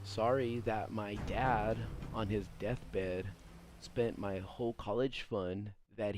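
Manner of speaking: slow, wounded mock-dignified girlfriend, x0.5 pace at first; a touch of offended Angela defending herself; mock defensive Angela. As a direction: drag out her hurt excuse, lightly hammed-up. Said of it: "she'll go on the defensive like this".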